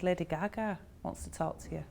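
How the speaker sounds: hushed whisper. Retold or imitated. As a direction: whisper it as an exciting secret. Confiding to child in story.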